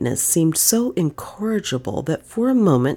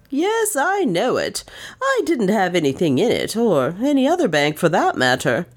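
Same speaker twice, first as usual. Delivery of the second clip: rueful; 5 semitones higher than usual. Acted. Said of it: "he admitted ruefully".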